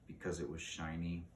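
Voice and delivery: tired, soft reply; worn out answer; weary. A narrator's reading. Young crow answering Miss Frisby, wearily. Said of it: "said wearily".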